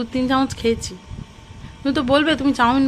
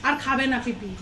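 talking softly; 7 dB quieter than usual. Real, not acted. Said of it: "আমি সব আস্তে আস্তে কথা বলছি".

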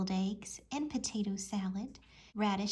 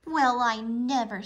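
louder shocked gasp of words; indignant exclamation; 2 semitones higher, 8 dB louder than usual. A narrator's reading. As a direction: exclaim in prim outrage. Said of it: "said Clarabelle Cow".

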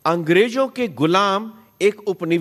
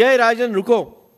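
pleading call; 5 semitones higher, 4 dB louder than usual. Retold or imitated. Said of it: "वे आपसे मांग कर रहे हैं".

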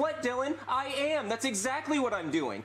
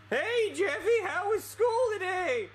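dad voice; 9 semitones higher, slower than usual. Acted. Poobie acts father in puppet video.

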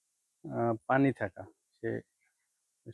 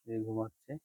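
softly spoken; 7 dB quieter than usual. Real, not acted. Farmer near sleeping goat kids, hushed. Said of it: "আমি আস্তে আস্তে বলতেছি".

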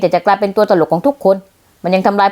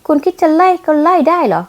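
defiant challenge; 6 semitones higher than usual. Acted.

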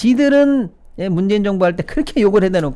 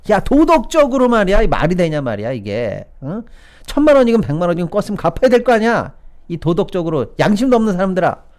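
acted-out scolding, raised and indignant; mock berating; 5 semitones higher than usual. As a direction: lay into them as the indignant accuser. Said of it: "이러면서 욕을 얼마나 했습니까?".

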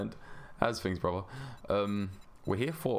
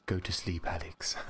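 soothing. Pretend. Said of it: "put Alex to sleep with my voice".

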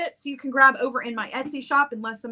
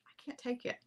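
much softer, half-voiced; soft mock despair; 3 semitones higher, 16 dB quieter than usual. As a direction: trail off in mock defeat. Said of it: "mock overwhelmed".

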